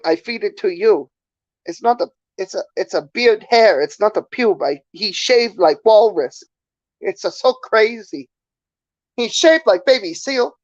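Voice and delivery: put-on caricatured Chinese accent, pitch bobbing up; mock Chinese-accented English; stereotypical Chinese accent. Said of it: "doing that really stereotypical Chinese voice".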